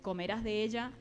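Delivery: measured, deliberate Bible reading; scripture reading. Acted. Preacher reads Genesis to the congregation, deliberate scripture reading. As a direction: read the verse out clearly, phrase by phrase.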